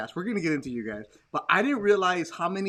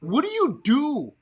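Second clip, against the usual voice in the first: raised, slowed-down mock yelling at a fan; 3 semitones higher, slower than usual. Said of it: "I, I yelled at him".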